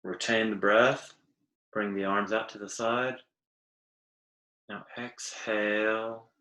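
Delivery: guided breathing. Acted. Teacher leading listeners through arm stretches, guided breathing. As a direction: lead the breath softly, with long pauses.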